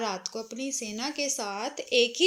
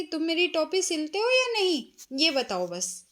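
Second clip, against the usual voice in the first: mouse insisting, raised pitch; loud demand; 3 semitones higher than usual. Acted. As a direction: push him for an answer, louder. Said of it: "चूहे ने जोर से कहा कि". (ज़ोर से माँग करता चूहा)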